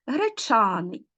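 гречаний said slowly, stressed on ЧА; stress on the suffix. Shown as a demonstration. Teacher showing pupils suffix stress, греЧАний stressed on ЧА. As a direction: stretch the ЧА in гречаний. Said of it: "суфікс у нас і наголошений".

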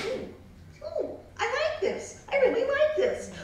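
high thrilled cooing; delighted squeal. Acted. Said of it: "She said".

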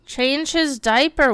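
slow, pointed demand; slow insistent order. Real, not acted. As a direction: spell it out slowly to someone not listening. Repeated order to Sim.

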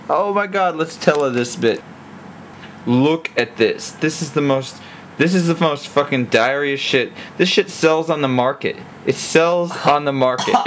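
over-the-top loud food reveal; shouting showcase. Acted. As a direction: bellow it like a TV host showing off a dish. Loud hammed-up dish showcase.

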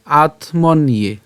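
"আত্মন ইয়ে" very slow, in separate pieces; broken into syllables. Shown as a demonstration. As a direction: part "আত", "মন" and "ইয়ে" with small gaps. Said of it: "আমরা উচ্চারণটা সুবিধার জন্য". ("আত্মন ইয়ে" ধীরে ভেঙে ভেঙে)

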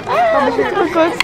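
high, laughing delight. Real, not acted. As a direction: gush with laughter. Excited at meeting. (ravie, en riant)

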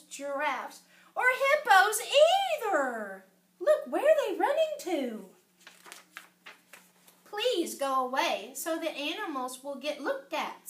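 animated, sing-song storybook narration; story reading to children. A narrator's reading. Reader telling children about Danny's dinosaur at the zoo, animated storytelling. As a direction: read it out expressively for young listeners. Reads picture book aloud to children.

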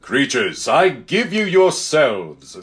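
slow, stately proclamation; a touch of benevolent grandeur; strong, happy lion. Acted. Lion addressing his new creatures, strong happy voice. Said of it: "said the strong, happy voice of Aslan".

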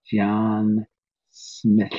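"Smith" with a hissed final sound; Navajo-accented Smith. Shown as a demonstration. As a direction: say "John Smith" with the lateral hiss at the end. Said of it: "you're never gonna say the word Smith the same".

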